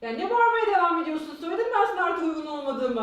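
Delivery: translated outburst, mildly exasperated; punitive scolding. Shown as a demonstration. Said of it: "Cezalandırıcı güç şöyle bir şey".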